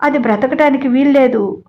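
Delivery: crying complaint. Acted. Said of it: "అని ఏడుస్తోంది".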